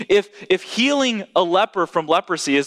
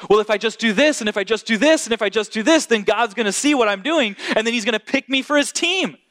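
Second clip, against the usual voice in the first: lightly voiced eager believer listing good deeds, a bit higher; self-reliant believer; 6 semitones higher than usual. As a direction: mimic someone earning God's favour, half-playful. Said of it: "this is, I think, how we think about Jesus".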